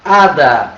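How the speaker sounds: saying hada with a silent h; Spanish word. Shown as a demonstration. Teacher models the Spanish word for students: hada with silent h. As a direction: hada said as ada, no h sound. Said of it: "que quer dizer fada".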